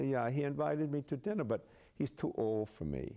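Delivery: imitated German-accented queen; lightly put-on German accent. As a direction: mimic her German accent. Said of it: "she had a German accent".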